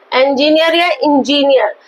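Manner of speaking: इंजीनियर first with "en", then with "in"; two pronunciations of engineer. Shown as a demonstration. Teacher offers both accepted forms, इंजीनियर opening on "en", then "in". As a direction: say इंजीनियर both ways, "enjineer" or "injineer". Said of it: "दोनों ही pronunciation में".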